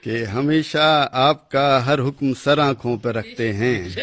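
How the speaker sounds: measured, declaiming verse recital; poem recitation. Acted. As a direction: recite like a poet at a gathering.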